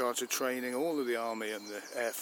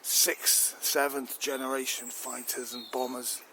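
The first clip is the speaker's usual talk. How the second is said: indignant rant; 3 semitones higher than usual. Acted. Chief fumes to the minister over wasted fighters, indignant. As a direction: vent about wasted billions.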